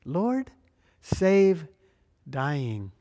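abrupt plea that sinks on the last word; abrupt cry. Acted. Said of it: "They cry out with three very abrupt words".

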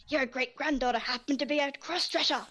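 mock-indignant quote with a lifted pitch; arguing ancestor. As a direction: imitate a bickering old relative from a film. Quoting an arguing ancestor from the film.

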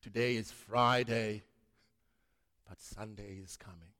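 low, gravelly American preacher voice; Tony Campolo impression. Preacher quoting Campolo's sermon in a low gravelly American voice. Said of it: "in his groveling voice and American accent".

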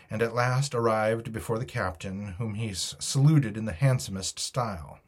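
measured, expressive audiobook reading; story narration. A narrator's reading. Reader tells listeners of the cold morning at the stockade, story narration. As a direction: tell it as an adventure tale.

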